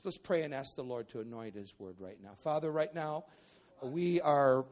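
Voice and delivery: earnest prayer, steady and low. Real, not acted. Pastor praying over the congregation, earnest prayer voice. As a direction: lead the church in prayer.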